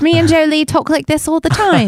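light put-on British accent; chatting as a mock Brit; a hint of a British accent. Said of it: "I can do British".

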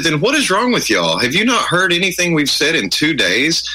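mock exasperated friend telling them off; imitating exasperated friend. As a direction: scold them for being slow. Friend scolding the complainers.

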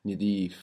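Nidif with i in the first syllable; short i opening Nidif; Egyptian vowel. Shown as a demonstration. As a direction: Nidif said ni-DEEF, Egyptian style. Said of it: "Might be more Egyptian".

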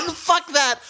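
high shriek of disgust; horrified outburst. Real, not acted. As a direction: recoil in horror. Horrified reaction.

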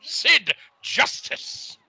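slow, booming manager promo voice; wrestling promo. Pretend. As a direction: announce it like a pompous wrestling manager. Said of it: "imagine I become friggin' Sid Justice's advocate".

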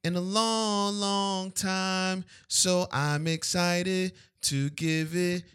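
big hyped announcer delivery. Real, not acted. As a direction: present it like a show host, drawn out. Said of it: "you sound like an announcer".

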